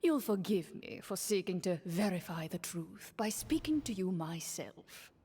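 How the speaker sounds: lightly voiced courtly minister, measured; a hint of a scheming prime minister; smooth minister. Minister speaks for the king.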